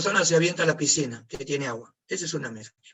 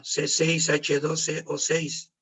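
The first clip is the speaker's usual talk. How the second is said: slow dictation; much slower than usual. Shown as a demonstration. Teacher dictating the glucose formula to the class, very slowly. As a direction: read out each symbol very slowly.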